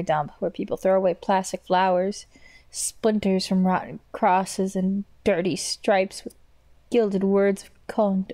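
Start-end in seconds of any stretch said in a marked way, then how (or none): 2.7-8.3 slow, drawn-out reading of the game text; reading the diary lines slowly; slow narration reading. A narrator's reading. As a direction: linger over each grim detail.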